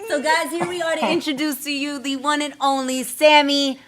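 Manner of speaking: host introducing the artist like an MC; hype intro. Real, not acted. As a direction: bring the guest on with energy. Hyping up the guest introduction.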